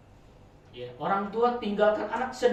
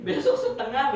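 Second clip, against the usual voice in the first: laughing; 8 semitones higher, 7 dB louder than usual. Real, not acted. Laughing at own joke.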